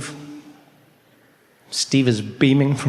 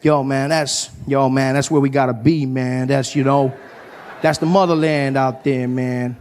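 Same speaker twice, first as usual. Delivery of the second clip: heartfelt African American dude voice; earnest American comedian. Acted. American comedian giving a motherland speech to a South African, earnest voice. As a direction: make a solemn, rambling homecoming speech. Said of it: "started giving me this speech".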